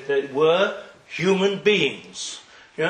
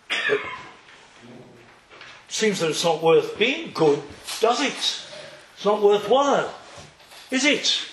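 mock indignant outcry; 5 semitones higher than usual. Esav protests the tzaddik's death.

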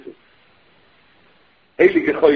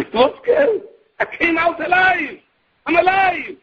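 incredulous retort; 8 semitones higher than usual. Retold or imitated. Shimon retorts, just escaped alive.

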